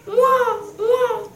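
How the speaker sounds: high mock bawling cry; storyteller's hammed-up howl; imitated wailing. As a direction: mimic a little brother's wail. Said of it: "il se met à hurler".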